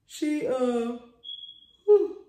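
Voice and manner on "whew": sudden high, loud "whew". Real, not acted. Speaker's own exclamation mid-story.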